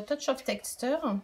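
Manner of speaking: slow English with a French accent; English product name, French accent. Real, not acted. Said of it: "avec mon bel accent anglais".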